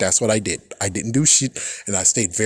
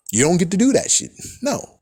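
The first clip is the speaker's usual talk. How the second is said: mock villain snap; 6 semitones higher than usual. Villain refusing sharply.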